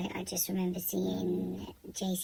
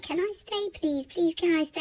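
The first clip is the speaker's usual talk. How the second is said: put-on desperate child pleading; 9 semitones higher, 5 dB louder than usual. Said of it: "I begged her for ages".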